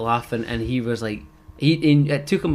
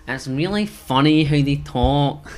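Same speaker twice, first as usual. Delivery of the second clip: slow Glasgow imitation; 5 dB louder, slower than usual. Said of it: "they've got a dead".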